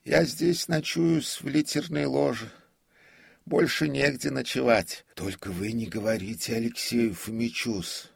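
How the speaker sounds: put-on high, loud, pleading old man; prompter's voice. A narrator's reading. Prompter admits sleeping in the box, high servile voice. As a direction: confess deferentially in a high pitch.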